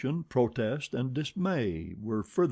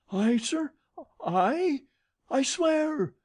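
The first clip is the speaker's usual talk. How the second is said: put-on high, loud flustered old lady; protesting old woman; 4 dB louder, slower than usual. A narrator's reading. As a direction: sputter your innocence in a high voice.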